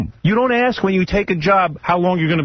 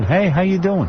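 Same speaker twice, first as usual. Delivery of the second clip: breezy mock greeting; 4 semitones higher than usual. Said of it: "he calls in".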